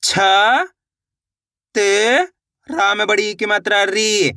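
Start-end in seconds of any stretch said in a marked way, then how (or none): 0.0-2.3 छ, then त, with a long gap; letter-by-letter sounding out. Shown as a demonstration. Teacher shows how each letter sounds, छ and त said separately. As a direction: say छ short, pause, then stretch त. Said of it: "एक एक अक्षर का उच्चारण किस तरीके से".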